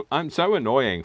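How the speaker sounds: laughing mock moan; laughing self-mockery. Real, not acted. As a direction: giggle while teasing herself. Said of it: "Shut up, Dave".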